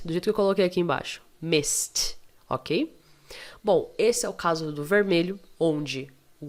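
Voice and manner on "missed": MISSED said as "mist". Shown as a demonstration. Teacher repeats the past of miss, ED as T. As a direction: hiss the S into a T in MISSED. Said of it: "miss vai ficar no passado".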